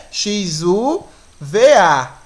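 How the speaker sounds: "X, U, V, A" listed letter by letter; sounds named separately. Shown as a demonstration. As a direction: count off "X, U" then "V, A" in separate beats. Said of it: "nós tínhamos quantos fonemas?".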